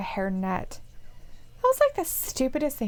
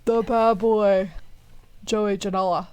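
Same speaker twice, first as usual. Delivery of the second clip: ring announcer. Pretend. Co-host gives the wrestler his nickname, light announcer voice. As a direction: draw out the nickname like an introduction. Continues mock ring introduction.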